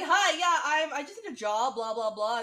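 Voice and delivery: imitating an upbeat job seeker; breezy mock request. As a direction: rattle off a breezy mock greeting. Acting out Marnie's breezy request.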